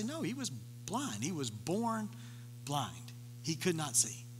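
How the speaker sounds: parents answering softly and slowly; quiet, slow, earnest. Retold or imitated. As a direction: say it softly and slowly, careful not to offend.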